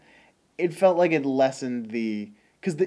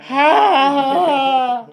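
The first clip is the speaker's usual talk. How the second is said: burst of laughter; 12 semitones higher, 10 dB louder than usual. Real, not acted. Laughing at the bellow.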